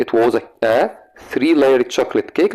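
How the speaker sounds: slow, word by word dictation. Shown as a demonstration. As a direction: read it out slowly for the class to write. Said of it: "teacher dictating sentence slowly". (إملاء ببطء)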